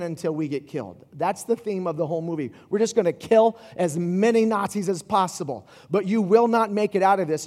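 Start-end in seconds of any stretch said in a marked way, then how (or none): 2.7-7.5 a louder rallying commander; army leader's speech. Retold or imitated. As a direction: pump up the troops, louder. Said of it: "is what he tells".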